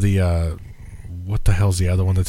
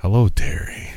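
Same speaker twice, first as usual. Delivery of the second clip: whispering. Real, not acted. Greeting a listener, hushed.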